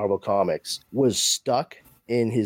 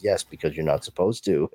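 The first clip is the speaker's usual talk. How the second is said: much lower, unbothered reply; low calm voice; 6 semitones lower than usual. Retold or imitated. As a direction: drop low and shrug it off. Bob answering Reed, retold.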